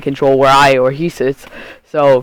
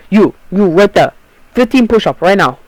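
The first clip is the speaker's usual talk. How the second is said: a hint of a shouted African accent, higher and a bit louder; mock African accent; 5 semitones higher, 3 dB louder than usual. Kid imitates the substitute ordering push-ups, light African accent. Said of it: "I sound like fucking Asian or some weird shit".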